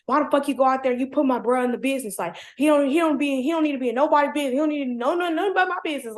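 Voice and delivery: lightly voiced aggressive boyfriend; mock angry rant. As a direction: rattle it off like he's fuming. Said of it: "split personality".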